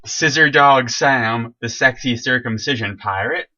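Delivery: slow, loud showman announcement; grand sign-off. Pretend. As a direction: announce yourself like a ridiculous hero.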